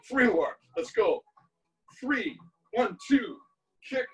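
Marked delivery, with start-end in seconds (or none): 2.0-4.1 calling out combo reps to the beat; counting workout reps. Shown as a demonstration. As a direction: bark each count like a coach. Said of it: "Let's do four more, three more".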